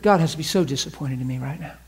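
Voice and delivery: mock despair. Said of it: "those phrases".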